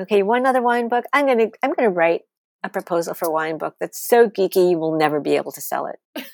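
rushed, irritated retort at the start; retold huffy comeback, quick then settling; pissed off. Writer retorts to publisher who wants another wine book, pissed off. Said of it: "I got really pissed off".

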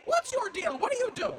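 mock nosy stranger. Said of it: "when somebody says".

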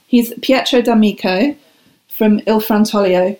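a light, self-mocking stab at an Italian accent; English Italian accent. Shown as a demonstration. Guest names her olive oil supplier in a mild Italian accent. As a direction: roll the Italian name with a hint of an Italian accent. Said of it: "in my best, my best English Italian accent there".

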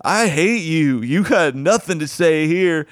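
acted-out scornful heckle; mock angry heckling. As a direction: spit it out slowly as an imitated heckler. Retelling heckler's hostile outburst.

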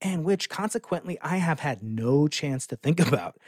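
reading Galileo's words. Retold or imitated. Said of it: "he says".

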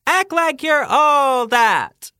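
high, slow, loud ghostly line. Retold or imitated. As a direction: intone it like a ghost. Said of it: "Is it A".

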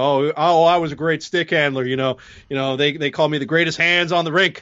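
lightly put-on boastful player, accent missing; half-hearted impression with the cadence slightly off; bad Dano impersonation. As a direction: brag as the old player, barely in character. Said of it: "That's a terrible Dano impersonation".

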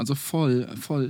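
„voll“ fallend, zustimmend betont; „voll, voll“ jugendlich vormachen; vorgemachtes voll. Shown as a demonstration. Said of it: "ich schon vorgemacht". („voll“ vorgemacht, fallend)

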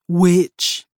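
a lightly voiced rumbling strongman; rumbled greeting. A narrator's reading. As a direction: rumble the word like a big man. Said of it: "he rumbled in greeting".

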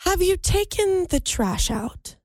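slow, high, precise ladylike diction; prim and proper. Pretend. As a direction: enunciate each word like a proper lady. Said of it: "prim and proper Ann".

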